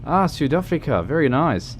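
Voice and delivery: a light, hammed-up South African accent; bad South African accent. Streamer greeting a South African viewer in a mock South African accent. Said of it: "I also have a terrible, terrible, uh, South African accent".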